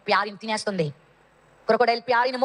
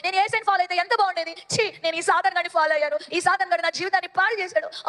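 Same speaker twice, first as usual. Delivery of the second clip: high-pitched wail, only mildly shouted; acted desperate screaming; 5 semitones higher than usual. Pyari calls parents while being dragged away, acted desperate screaming. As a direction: plead high, like a terrified child in a story. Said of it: "గట్టిగా అరుస్తుంది గొంతు పోయేలాగా".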